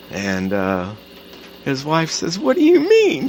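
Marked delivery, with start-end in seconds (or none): 2.4-3.3 close to tears. Retold or imitated. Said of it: "She's starting to cry".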